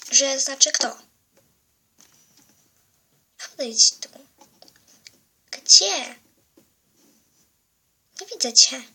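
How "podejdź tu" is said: sinister whisper. Acted. Hidden villain whispers to girl.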